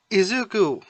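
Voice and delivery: high, loud frightened cry of a name; scared cry. A narrator's reading. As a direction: call out his name in sudden fear. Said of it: "scared for him".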